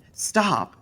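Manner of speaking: high, loud cut-off; sharp stop. Acted. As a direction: snap to stop him. Evelyn interrupts the scare.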